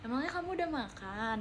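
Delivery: soft, caring question with the added nya; tender from the heart. Shown as a demonstration. Viewer asking softly if someone has eaten, tenderly caring. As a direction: ask gently, like you truly care. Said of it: "dari hati lembut gitu".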